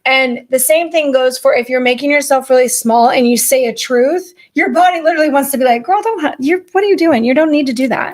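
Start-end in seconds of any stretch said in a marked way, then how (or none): 5.8-8.1 exasperated friend voice. Pretend. Body voiced as a scolding friend.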